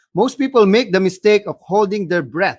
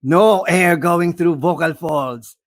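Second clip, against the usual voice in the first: slow husky demonstration; gravelly, husky; slower than usual. Shown as a demonstration. Coach showing the third problematic voice, gravelly. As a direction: drag it out with a husky rasp. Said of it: "gravely voice or husky".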